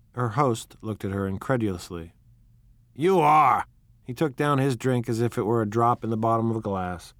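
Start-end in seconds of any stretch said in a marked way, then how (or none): 3.0-3.7 incredulous. Acted. Incredulous host.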